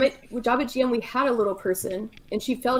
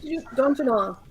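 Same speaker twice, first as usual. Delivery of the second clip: put-on Minnesota accent; 2 semitones higher than usual.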